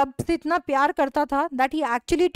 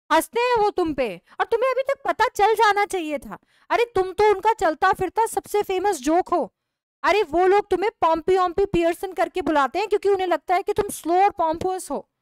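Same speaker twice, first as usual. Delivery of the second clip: mocking taunt; 5 semitones higher, 4 dB louder than usual. Wife tells husband club mocks him.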